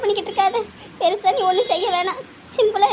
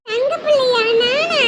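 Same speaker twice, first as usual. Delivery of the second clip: delighted surprise; 3 semitones higher, slower than usual. Acted. Child hearing aunt's new pet name, pleasantly surprised. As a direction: question it happily, not quite believing.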